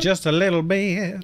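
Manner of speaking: loud, close-up on the mic; right up against the microphone; too close to mic. Real, not acted. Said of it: "I'm gonna be super loud".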